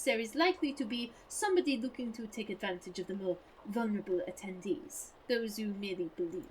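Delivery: put-on a light comic French accent. Debunker lectures the player in a French accent. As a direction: keep a hint of French in it. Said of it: "my French accent is more allo allo".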